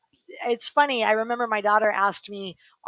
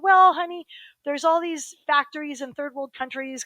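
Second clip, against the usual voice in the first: put-on explaining to child. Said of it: "I give her the labor trafficking definition".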